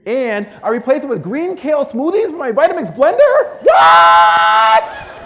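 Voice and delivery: loud high exclaim, building to a yell; excited shout. Real, not acted. Speaker hyping his kale smoothie switch, shouting. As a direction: yell the punchline with glee. Comic brag to audience.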